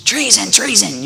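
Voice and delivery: shouting treason; mock shout. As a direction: cry out like an angry old queen. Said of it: "an old lady running in".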